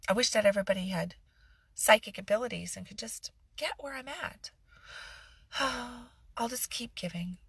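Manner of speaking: self-pitying victim. Pretend.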